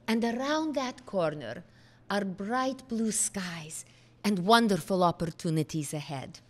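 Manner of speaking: a light imitation of a Hungarian accent. Father reassuring his worried daughter, in a lightly imitated Hungarian accent. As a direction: gently put on the late father's Hungarian accent. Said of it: "in his marvelous Hungarian accent".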